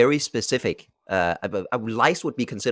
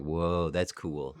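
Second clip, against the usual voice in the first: awed whoa; 6 semitones lower, 7 dB quieter, much slower than usual. Retold or imitated. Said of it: "What have been some, like".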